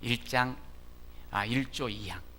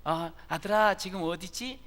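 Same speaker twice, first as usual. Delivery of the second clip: mother asking; 6 semitones higher than usual. Retold or imitated. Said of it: "이렇게 물어봐요".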